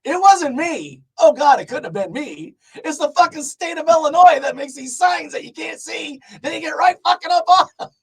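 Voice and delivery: high, loud cussing at the state; mock outrage at the signs; comic rant. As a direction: blame the signs, yelling. Ranting at Illinois road signs.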